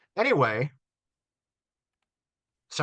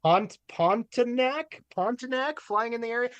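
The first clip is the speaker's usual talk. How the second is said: high, breaking into laughter mid-read; laughing through it; 5 semitones higher, 5 dB louder, slower than usual. Real, not acted. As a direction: try to read it but keep cracking up. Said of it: "I can't do this with a straight face".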